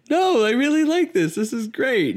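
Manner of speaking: high-pitched, gushing imitation of a keen boy; mock eager protest. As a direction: protest with exaggerated enthusiasm, pitch way up. Acts out his eager reply to her.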